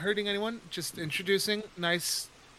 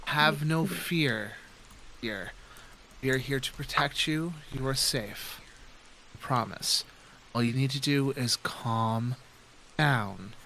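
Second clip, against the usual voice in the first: calm reassurance. Acted. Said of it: "to talk to her calmly".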